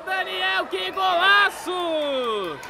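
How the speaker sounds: slow, drawn-out shout of praise; stretched exclamation. Real, not acted. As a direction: savor every syllable. Celebra o gol. (exclamação arrastada)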